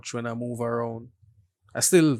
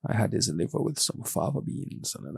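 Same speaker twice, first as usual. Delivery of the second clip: Hannibal Lecter impression; 4 dB quieter than usual. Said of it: "Hannibal Lecter quote".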